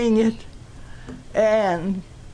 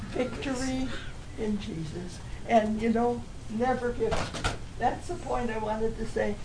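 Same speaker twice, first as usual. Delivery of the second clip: softer, choked-up apology; 6 dB quieter than usual. Real, not acted. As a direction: say it softly, holding back tears. Apologizes for being emotional.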